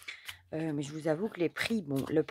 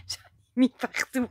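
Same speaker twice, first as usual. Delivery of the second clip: laughing through the words, slowed; amused chuckle while admitting the mess; 6 semitones higher, 4 dB louder, slower than usual. Real, not acted. Laughs at mess she made.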